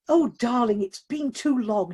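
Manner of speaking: fond to his drink. Acted. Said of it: "addressing the contents before sipping".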